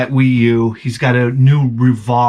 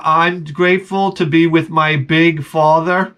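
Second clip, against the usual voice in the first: laughing through it; 3 semitones higher than usual. Retold or imitated. Son's garbled reply, laughing.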